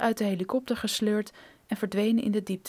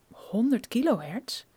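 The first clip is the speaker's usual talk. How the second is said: puzzled echo. Acted. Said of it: "Brophy begreep er niets van".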